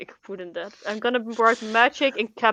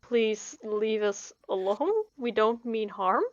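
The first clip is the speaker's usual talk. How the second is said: slow pleading; 5 dB quieter, slower than usual. Acted. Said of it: "sounds and just gestures".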